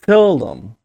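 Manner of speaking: "seldom" with a dark, muted L, British style; "seldom" with the L rounded and barely there. Shown as a demonstration. ("seldom" con la L oscura y apagada)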